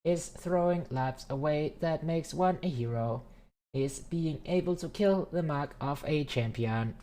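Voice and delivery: formal AI speech, slightly stiff; measured, stiff robot orator. Acted. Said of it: "Tesla would talk that just for shits and giggles".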